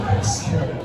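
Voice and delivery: a hushed spooky Very scary; whispered repeat. Shown as a demonstration.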